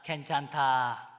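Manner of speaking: put-on calm the child, slowly; 느리고 낮게 다정한 괜찮다; gentle reassurance. Shown as a demonstration. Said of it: "따라잡시다".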